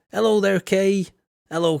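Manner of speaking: hearty shout of hello; loud hello. Real, not acted. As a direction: call out a big hello to a viewer. Greeting viewer Kay loudly.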